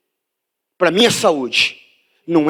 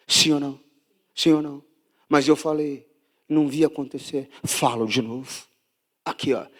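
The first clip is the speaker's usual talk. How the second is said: much lower and softer, near a whisper; hushed preaching; 9 semitones lower, 8 dB quieter, faster than usual. Real, not acted. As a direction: draw them in with a hush. Pregador fala bem baixo. (pregação sussurrada e íntima)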